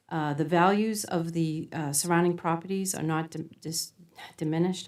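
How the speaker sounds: stumbling over words from nerves; nervous, tripping on diminished. Real, not acted. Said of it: "I'm sorry, I'm nervous".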